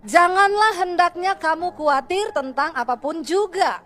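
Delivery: slow, solemn reading of the verse; measured pulpit recital of scripture. Acted. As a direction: lay out each word of the verse deliberately. Reads the verse to the congregation.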